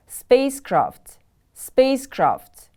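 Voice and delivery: Spacecraft with SPACE high, falling on craft; stress on first syllable. Shown as a demonstration. Teacher modelling a new word for pupils, first-syllable stress. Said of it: "The stress is on the first syllable".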